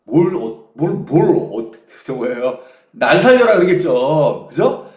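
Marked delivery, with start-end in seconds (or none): 2.9-3.6 loud, high retold shout; raised-voice mock cry for life; imitated cry for help. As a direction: act out a panicked plea for rescue. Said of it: "뭐라고 소리 질렀을까요?".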